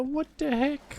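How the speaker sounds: a jump up in pitch on the question; what the heck, genuinely thrown; surprised. Real, not acted. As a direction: caught off guard, baffled. Sees it's not a bonfire.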